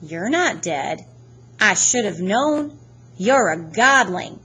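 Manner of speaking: put-on slow British-accented accusation; deliberate, British-accented unmasking; strange British accent. A narrator's reading. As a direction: draw out the discovery in an odd British accent. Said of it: "He had a strange accent. British, maybe".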